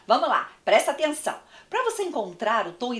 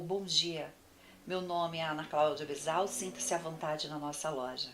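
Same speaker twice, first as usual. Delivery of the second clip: softer, listless shop greeting; soft flat greeting; 4 semitones lower, 8 dB quieter than usual. Shown as a demonstration. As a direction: welcome them without energy. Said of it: "É uma coisa".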